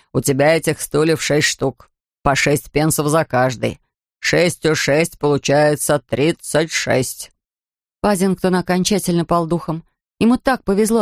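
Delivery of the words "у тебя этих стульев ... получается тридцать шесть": low, slow grumbling attendant; lightly voiced grumpy beach attendant; gruff ticket man.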